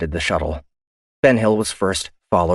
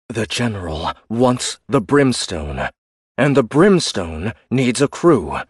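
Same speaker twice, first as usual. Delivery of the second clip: much higher and louder protest; indignant officer; 4 semitones higher, 3 dB louder, slower than usual. Acted. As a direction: push back in disbelief. Ian voice.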